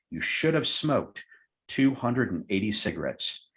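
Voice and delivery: slow, spaced out, landing on you failed; slow punchline. Retold or imitated. Hypnotist spells out the missed cigarettes, slow and deliberate. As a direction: stretch it out, letting each figure sink in.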